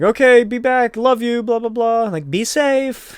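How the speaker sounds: high, held-out mock yell; light, high-pitched send-off holler; calling after someone. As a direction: call it out to someone leaving. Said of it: "she yells after".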